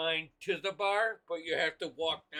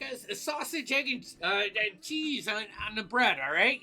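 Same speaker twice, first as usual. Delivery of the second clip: jovial patron; 4 semitones higher, 3 dB louder than usual. Acted. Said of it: "this jovial person get their breakfast".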